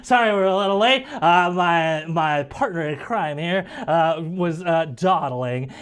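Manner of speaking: high, animated youngster voice; wiry young intern. Acted. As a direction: pipe up as a wiry little guy running in late. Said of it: "Sav looks at you".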